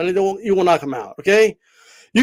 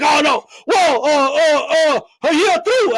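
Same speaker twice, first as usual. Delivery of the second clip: hammed-up drawn-out wailing, pitched up; mock self-important guy; 5 semitones higher than usual. Streamer mocks a guy who thinks he's the show, hammed-up. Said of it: "This guy thinks he's the show".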